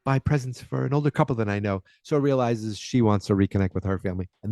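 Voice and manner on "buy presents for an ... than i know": Jenny leaving. Retold or imitated. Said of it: "and Jenny's like".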